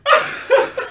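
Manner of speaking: high, loud words squeezed through laughing; laughing too hard to speak normally; real helpless laughter. Real, not acted. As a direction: talk while cracking up uncontrollably. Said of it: "I don't know why I'm laughing".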